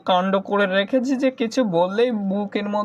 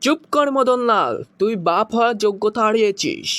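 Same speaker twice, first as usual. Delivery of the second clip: filmi scolding; 2 semitones higher than usual. Acted. Son scolds father dramatically.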